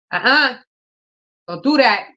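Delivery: high, firm no to a pet; scolding the cat. Real, not acted. Owner warning her cat off, high and firm. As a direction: warn the cat off sharply.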